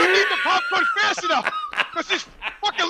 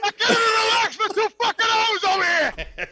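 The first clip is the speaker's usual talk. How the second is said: laughing exasperated outburst; 5 semitones higher than usual. Retold or imitated. Seat shaking, popcorn spilling.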